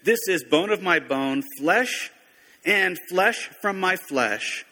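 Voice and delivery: slow, savoring, lightly excited; a touch of delight at meeting his wife; mildly excited Adam. Retold or imitated. Adam greeting Eve, mildly excited. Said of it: "He was very excited".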